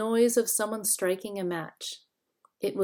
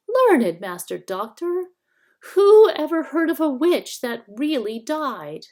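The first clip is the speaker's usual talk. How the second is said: high, wheedling whine; shrill whining hag; 7 semitones higher, 7 dB louder than usual. A narrator's reading. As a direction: whine like a fawning old hag. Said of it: "the shrill, whining voice".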